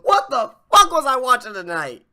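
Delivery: loud, disbelieving what-the-fuck; exasperated outburst. Real, not acted. Podcaster yelling at last night's wrestling show in disbelief. Exasperated rant after laughing fit.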